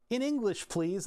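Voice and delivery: high, bright mock-polite request; prim website prompt. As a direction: read it like a prissy site button. Quoting a website's language prompt.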